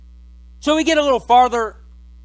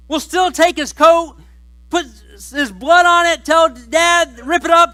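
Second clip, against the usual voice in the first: brothers loudly cheering their plan, much louder and higher; hammed-up greedy glee; excited scheming; 7 semitones higher, 6 dB louder than usual. Brothers pitching Reuben the plan, loud and gleeful. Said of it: "They're like".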